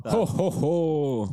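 slow Santa laugh. Pretend. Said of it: "Santa Claus".

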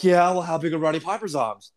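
lightly voiced high cowboy storyteller; Terry Funk. Podcaster retelling a wrestler's promo, light high impression. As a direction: raise the pitch for a wrestler impression. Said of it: "and he goes".

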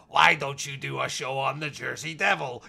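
a hint of a dubbed Gerry Adams voiceover; lightly voiced emotional dub of Gerry Adams. Mocking the dubbed voice of Gerry Adams, light impression. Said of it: "the voice I was put in there was like".

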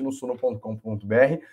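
choking mid-sentence on the address; words caught in a choking throat. Real, not acted. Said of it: "Desculpa, engasguei".

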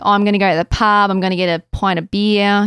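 lightly broadened country Australian bogan; bogan accent. Shown as a demonstration. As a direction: imitate a rural Aussie bogan. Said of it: "you'll get those real Bogan accents".

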